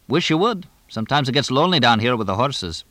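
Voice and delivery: lightly voiced trainer, starting high; chatty English trainer. Trainer joking about lonely stables, lightly voiced chatty role. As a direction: lightly play the talkative stable man.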